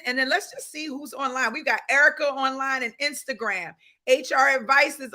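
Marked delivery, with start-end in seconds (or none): none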